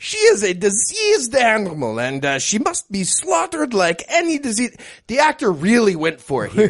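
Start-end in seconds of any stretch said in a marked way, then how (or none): 0.0-4.8 a hint of a German-Cuban Bond villain accent; lightly mock a Bond villain accent; understated Bond villain accent, calling the mother diseased. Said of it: "German, Cuban, American Bond villain accent".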